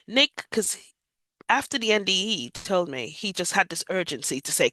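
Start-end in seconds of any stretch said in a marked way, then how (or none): 0.1-0.5 a loud, higher call of a name; retold shout. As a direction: call the name out urgently over the phone.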